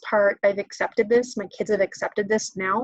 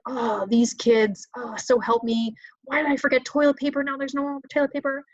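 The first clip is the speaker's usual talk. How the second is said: mock exasperation; 3 semitones higher than usual. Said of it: "I was mad about toilet paper".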